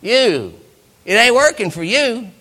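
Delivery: mock the tired believer like a spirit; taunting evil spirit. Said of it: "where it can say".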